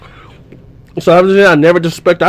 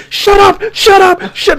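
imitating grandma telling him to shut up; grandma yelling; 14 semitones higher, much slower than usual. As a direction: bark it like an angry grandma. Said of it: "keeps saying".

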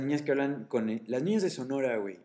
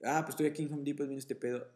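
put-on Yucatecan accent; 6 dB quieter, faster than usual. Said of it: "yo hablando de un pinche yucateco".

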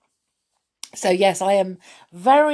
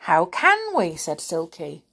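lively storybook reading with voices; reading to children. Acted. Reading The Folk of the Faraway Tree to children, lively. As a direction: read it like bedtime story time.

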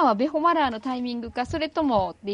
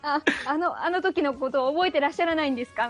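trying not to laugh; 3 semitones higher than usual. Retold or imitated. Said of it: "めっちゃだから吹き出しそうになって".

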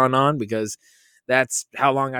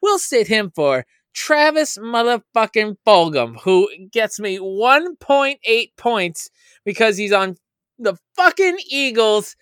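mock cocky; 5 semitones higher than usual. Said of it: "I was just like".

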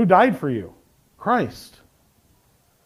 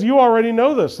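raised, insistent appeal; earnest appeal; 5 semitones higher than usual. Acted. Preacher repeating Jude's reminder, earnest appeal. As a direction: press the reminder, pitched up. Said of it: "he appeals".

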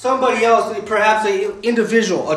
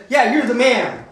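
casual praise; 2 semitones higher than usual. Retold or imitated. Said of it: "you hear people say".

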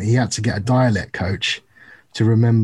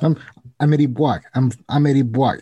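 bad, stereotypical New York accent; mock a Brit's worst New York accent; clumsy put-on New Yorker, slightly raised pitch; Tom Hardy in Venom; 4 semitones higher than usual. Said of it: "the worst New York accent".

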